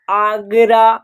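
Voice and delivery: "आगरा" sounded out with long 'aa' vowels; teacher's clear "आगरा", A as long 'aa'. Shown as a demonstration. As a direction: model "आगरा" carefully, opening on a full 'aa'. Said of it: "आ का उच्चारण हो रहा".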